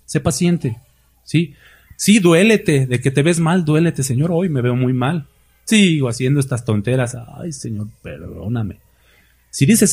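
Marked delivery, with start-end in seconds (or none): 4.0-8.8 fading into a much softer sigh; a mild, hushed confession; remorseful prayer. Acted. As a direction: let it sink to near silence on perdóname. Remorseful believer's prayer voiced.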